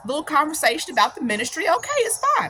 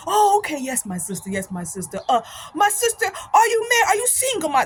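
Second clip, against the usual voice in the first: put-on African brother's accent; 6 semitones higher than usual. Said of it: "this brother from Africa".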